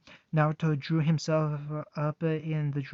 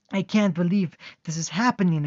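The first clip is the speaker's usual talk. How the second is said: soft titter; 3 semitones higher, 5 dB louder than usual. Acted. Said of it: "Naruto tittered softly".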